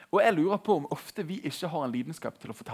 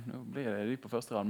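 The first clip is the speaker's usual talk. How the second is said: ordinary talk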